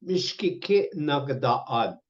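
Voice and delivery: drawn out, syllable by syllable; very slow "Mishkike na gdaan"; slow teaching pronunciation. Shown as a demonstration. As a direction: model it slowly for learners. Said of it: "teaching question".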